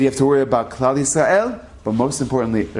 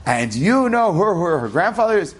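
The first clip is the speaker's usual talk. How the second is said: excited father; 5 semitones higher than usual. Retold or imitated. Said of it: "my father was so excited".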